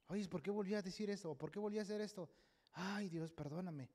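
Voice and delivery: soft acted self-reproach, sinking at the end; softly voiced regret; remorseful prayer. Voicing a believer's remorseful prayer.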